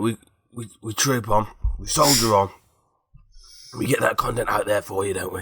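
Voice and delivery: put-on a light gravelly Sean Dyche accent; lightly put-on gravelly football-manager accent for the listeners. Sick host doing a light gravelly Sean Dyche accent. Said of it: "That sort of Sean Dyche accent?".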